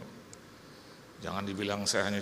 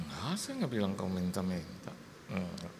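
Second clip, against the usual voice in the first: retold reassurance; 5 semitones lower, 4 dB quieter than usual. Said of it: "Saya bilang".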